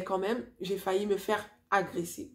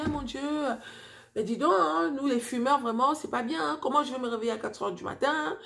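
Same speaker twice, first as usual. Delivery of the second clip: agitated; 4 semitones higher than usual. Retold or imitated. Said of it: "j'étais un peu agitée".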